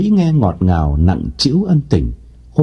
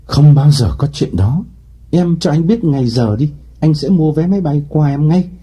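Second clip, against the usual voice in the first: fired up; 4 semitones higher than usual. Acted. Lộc eagerly promises Mỹ a plane ticket. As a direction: swear it with sudden zeal. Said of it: "Lộc hăng lên".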